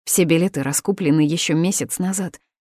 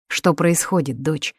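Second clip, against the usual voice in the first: indignant father; 3 dB louder than usual. Acted. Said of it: "возмущался отец".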